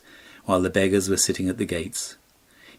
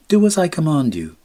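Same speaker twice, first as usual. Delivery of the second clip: higher, louder royal command; commanding prince; 9 semitones higher, 7 dB louder than usual. Acted. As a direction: order him firmly, like a prince. Prince orders the Swallow again.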